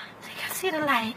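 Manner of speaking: very soft, low, faint dying voice; low and weak, nearly gone; mock dying, fading. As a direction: barely get it out, as if passing out. Fading further from the bad breath.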